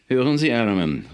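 loud, heated call; angry call. A narrator's reading. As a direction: call him out in outrage. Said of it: "rief Nemo aufgebracht".

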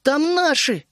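high-voiced desperate cry; tearful plea. A narrator's reading. Вишня telling Тереза friends are up there, tearful plea. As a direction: plead in a high girlish voice. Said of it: "со слезами".

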